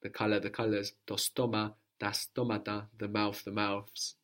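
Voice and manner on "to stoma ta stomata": to STOma, ta STOmata; accent stays put. Shown as a demonstration. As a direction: keep first-syllable stress in both "stoma" and "stomata". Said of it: "The accent doesn't move".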